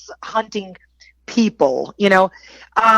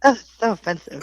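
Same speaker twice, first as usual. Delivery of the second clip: mock offended; 3 semitones higher, faster than usual. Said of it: "How was that again?".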